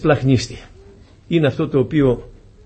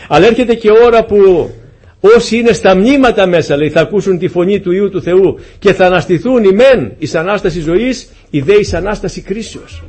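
impassioned preaching; 3 semitones higher, 3 dB louder than usual. Real, not acted. Preacher announcing the coming resurrection, impassioned. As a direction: proclaim it to the whole congregation.

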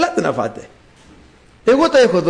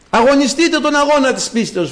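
higher-pitched exhorting proclamation; calling out; 5 semitones higher than usual. Acted. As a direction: urge them on from the pulpit. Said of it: "φωνάζει η σοφία". (παρακινητικό κήρυγμα, σαν φωνή κήρυκα)

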